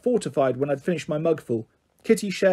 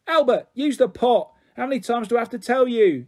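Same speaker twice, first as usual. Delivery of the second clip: shouting; 5 semitones higher than usual. A narrator's reading. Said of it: "his mother shouted".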